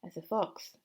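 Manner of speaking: high, loud boast; proud shout. Acted. Mister Fox rallying his family to dig, high proud shout. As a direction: shout it out with pride. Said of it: "shouted Mister Fox".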